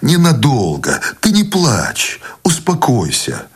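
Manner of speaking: calm her with kindness, stretching the words; gentle sympathy. A narrator's reading. Husband comforting his crying wife, gently sympathetic. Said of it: "Он говорил тихо, с сочувственной добротой в голосе".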